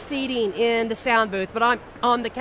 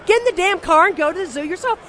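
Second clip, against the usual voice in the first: mock Shatner retort; 6 semitones higher than usual. Mocking Shatner's imagined retort.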